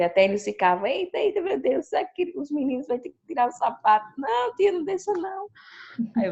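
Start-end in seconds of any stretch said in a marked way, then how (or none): 0.9-4.0 put-on child voice. Pupils reacting in class. 4.2-5.5 put-on high pleading child voice; child's plea.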